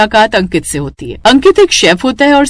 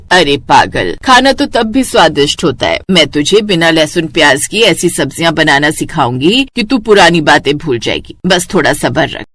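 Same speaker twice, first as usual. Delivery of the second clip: lightly voiced elder, a little lower; consoling mother-in-law; 5 semitones lower than usual. Mother-in-law comforting crying bride about cooking, consoling. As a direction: reassure her with gentle, low-pitched words.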